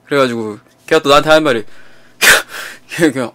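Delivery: ordinary delivery, nothing marked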